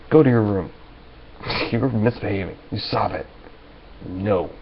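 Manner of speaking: a hint of a firm mother sending kids off; calm assertive mother. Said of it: "Very calm. Just assertive".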